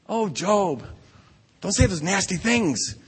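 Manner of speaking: lightly mocking pious scolding; a hint of a sanctimonious friend lecturing; mild mock evangelical scold; preachy evangelical friend. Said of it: "they all sound kind of evangelical".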